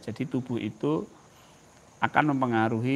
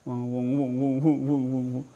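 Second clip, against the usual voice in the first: buzzing mind noise; 3 semitones lower than usual. Shown as a demonstration. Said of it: "pikiran itu kan semeruweng gitu".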